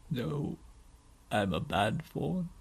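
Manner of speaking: low, soft, slow confession; miserable faun. Acted. Faun insisting to Lucy he is bad, miserably. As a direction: sink down into self-reproach.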